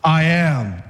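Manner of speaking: low, proud "I am" with a bit of swagger; a hint of a man standing tall, sure of himself; swaggering Jesus. A preacher voicing Jesus before the arresting crowd, lightly swaggering. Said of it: "He had the man swagger too".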